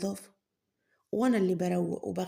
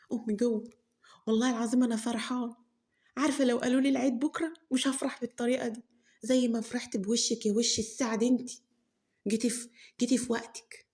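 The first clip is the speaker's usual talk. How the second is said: put-on overjoyed girl; 3 semitones higher than usual. Girl gushes over Horeya's arrival.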